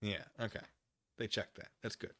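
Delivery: ordinary talk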